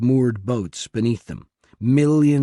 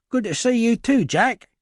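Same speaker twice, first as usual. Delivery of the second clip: put-on higher, brighter East London accent; 12 semitones higher, 4 dB louder than usual. A narrator's reading. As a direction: East London tech guy greeting his friend. Hooligan voiced in story.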